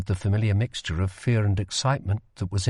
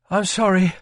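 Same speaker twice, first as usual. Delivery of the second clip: higher, pleading sorry; guilty apology; 8 semitones higher, 4 dB louder than usual. Acted. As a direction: own the mistake sheepishly. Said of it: "he said guiltily".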